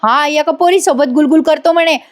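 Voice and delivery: high-pitched tattling, no real shout; mock yelling. Nami bursts in to tell on him, mock yelling. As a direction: imitate a girl yelling an accusation. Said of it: "ओरडते मोठ्याने".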